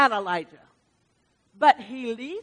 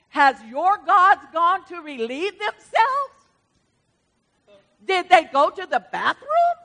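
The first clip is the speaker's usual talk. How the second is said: slow, higher, laughing mockery; mocking; 5 semitones higher, 3 dB louder than usual. Preacher voicing Elijah taunting the prophets, mocking with a laugh. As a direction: sneer it out with a chuckle. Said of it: "He's mocking them".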